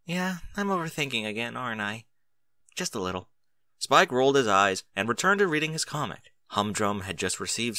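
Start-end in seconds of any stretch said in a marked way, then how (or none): 0.0-3.3 sheepish sigh. Acted. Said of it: "then sighed".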